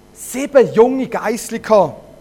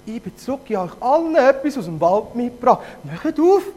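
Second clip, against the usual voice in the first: high wolf voice; 5 semitones higher than usual. Acted. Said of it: "mit einer hohen Stimme gesagt".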